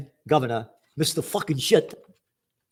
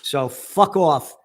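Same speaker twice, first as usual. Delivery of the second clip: angry; 4 dB louder, much slower than usual. Real, not acted. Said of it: "because I'm angry".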